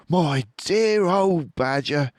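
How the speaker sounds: warm Fox voice. A narrator's reading. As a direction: greet an old friend fondly. Fox addressing Badger kindly.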